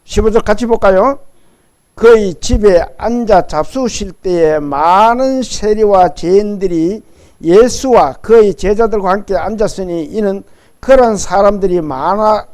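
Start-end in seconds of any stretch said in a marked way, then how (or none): 2.0-12.5 loud, deliberate congregational Bible reading; scripture reading. Acted. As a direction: project the verse for all to read along. Leads congregation reading scripture aloud.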